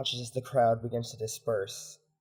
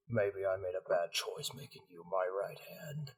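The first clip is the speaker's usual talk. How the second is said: low, subdued commander's rebuke; disappointed commander; 3 semitones lower than usual. Acted. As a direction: coldly question your right hand's loyalty.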